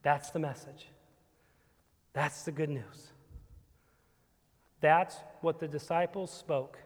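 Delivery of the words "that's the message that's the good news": softer and lower, letting it sink in; quiet repeat. Shown as a demonstration. Preacher repeats the message to the congregation, hushed. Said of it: "That's it".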